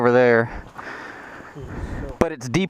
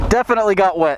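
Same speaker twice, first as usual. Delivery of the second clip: inside a helmet; 4 semitones higher, faster than usual. Real, not acted. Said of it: "my visor's fogged up".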